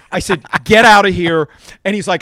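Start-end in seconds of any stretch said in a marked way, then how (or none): 0.6-1.5 louder, laughing get out of here; disbelieving. Retold or imitated. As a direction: throw it out in amused disbelief.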